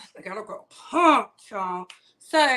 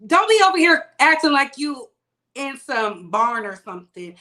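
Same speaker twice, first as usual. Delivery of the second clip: scolding; 7 dB louder than usual. Real, not acted. Scolding chat about cussing.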